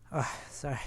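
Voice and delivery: whispered gasp for air; catching breath in a whisper; breathless whisper. Real, not acted. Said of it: "I ran out of breath there".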